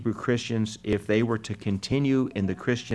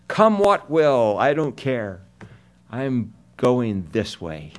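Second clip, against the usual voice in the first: defiant sinner; slower than usual. Acted. Preacher voicing a careless sinner throwing caution aside, slow and defiant. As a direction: play the reckless sinner brushing off all caution.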